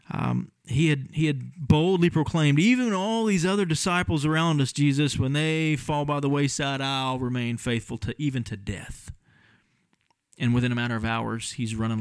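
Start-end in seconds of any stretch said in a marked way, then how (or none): 2.6-9.1 boastful vow. Retold or imitated. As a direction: start proud, let it sink away. Peter's bold proclamation, retold.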